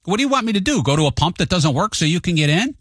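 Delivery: snapping back at the rude driver, heated; exasperated retort. Retold or imitated. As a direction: throw it back at him, fed up. Arguing with other driver.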